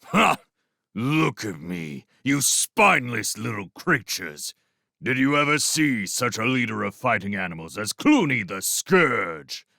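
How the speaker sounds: boastful rat chieftain taunting captives; sneering warlord rat. Acted. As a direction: sneer down at the bound prisoners. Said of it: "He flicked his tail at them and sneered".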